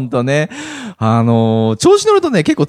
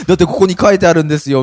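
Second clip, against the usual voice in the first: deadpan meme voice; 3 semitones higher, 5 dB louder, faster than usual. Pretend. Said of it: "みたいなね".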